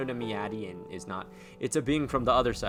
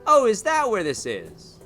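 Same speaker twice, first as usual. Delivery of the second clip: surprised; 9 semitones higher, 8 dB louder than usual. Real, not acted. Pleasant surprise.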